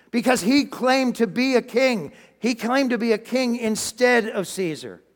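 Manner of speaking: high, insistent accusation; leaders shouting. Acted. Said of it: "religious leaders started shouting".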